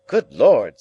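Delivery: gruff man voice. Retold or imitated. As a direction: imitate a gruff husband. Camilla quotes Matthew.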